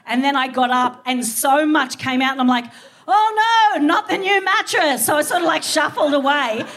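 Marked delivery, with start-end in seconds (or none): 3.1-5.1 mock panic. Panicking over the new mattress.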